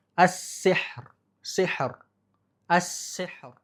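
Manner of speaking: as-sihr with the final ro clearly sounded. Shown as a demonstration. Teacher showing ro kept at the pause. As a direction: finish as-sihr with a crisp r. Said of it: "Ro-nya hampir hilang".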